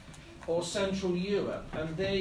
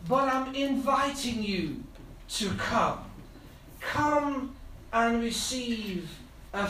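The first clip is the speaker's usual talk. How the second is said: preaching at full force; 2 semitones higher than usual. Real, not acted. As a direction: build each "come" into a passionate plea. Preaching altar call.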